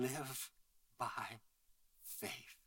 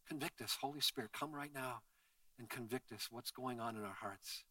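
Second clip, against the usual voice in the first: prayer. Acted. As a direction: pray it gently to the Lord. Pastor leads congregation in prayer.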